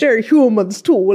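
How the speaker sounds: slow, mimicked Irish accent; teasing copy of an Irish accent; mock Irish accent. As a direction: parrot a bad Irish accent, drawn out. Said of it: "that was Irish".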